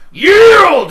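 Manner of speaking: high, loud demand to yield; shouted command. Acted. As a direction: bark it down at the pinned man. GM voices wrestler demanding surrender.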